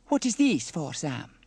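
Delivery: put-on high, loud Italian-accented question; Bella, curious. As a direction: ask with lively puzzlement. Bella puzzled by a gift.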